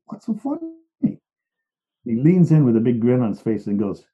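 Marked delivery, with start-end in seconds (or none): 0.1-1.2 annoyed. Retold or imitated. Annoyed at laughing therapist.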